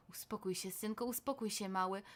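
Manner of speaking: soothing father. Acted. Father calming his scared son, tender. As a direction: hush the child gently.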